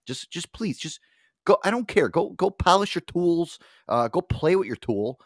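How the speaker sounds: fed up, shooing the team away; exasperated outburst. Retold or imitated. To his team, a slow exasperated plea to leave.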